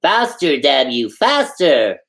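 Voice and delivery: a touch of a high impatient shout; lightly hammed-up yell at the driver; mock shouting. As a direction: Kovalyev pummels the driver and shouts.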